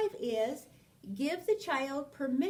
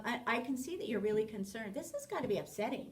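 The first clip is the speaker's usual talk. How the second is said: empathetic reply; faster than usual. Shown as a demonstration. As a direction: reassure a concerned child gently. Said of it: "you reflect back empathy of".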